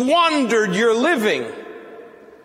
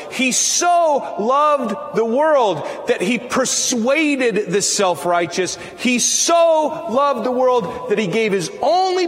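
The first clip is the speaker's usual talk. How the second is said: fervent preaching; 2 semitones higher than usual. Real, not acted. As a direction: proclaim it to the whole church. Preacher building to John 3:16.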